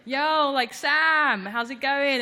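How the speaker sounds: calling out to a friend in the crowd. Retold or imitated. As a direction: shout across the crowd to Sam. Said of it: "and you say".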